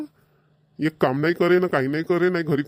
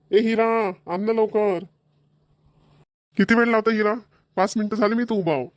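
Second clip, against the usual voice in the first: raised voice calling to his wife to hurry; impatient calling out; 4 semitones higher than usual. Acted. Father calls his wife to hurry, raised voice.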